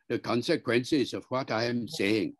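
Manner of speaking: Indian-style syllable-timed delivery; Indian English rhythm. Shown as a demonstration. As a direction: give each syllable equal weight, Indian English. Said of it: "with a very Indian rhythm".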